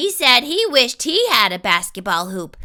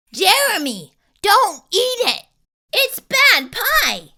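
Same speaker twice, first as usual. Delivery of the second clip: higher, urgent plea; urgent warning; 7 semitones higher than usual. Acted. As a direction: warn him off in a panic. Boy warns friend off pie.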